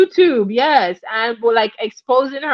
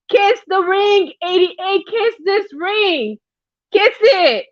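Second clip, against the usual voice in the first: mock diva; 4 semitones higher than usual. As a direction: lord it over them, kiss my ring. Replays the diva's ring demand.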